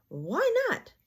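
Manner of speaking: high, incredulous Why not; a bouncy tiger baffled by the news; amazed. A narrator's reading. Tigger asks Pooh why not, amazed.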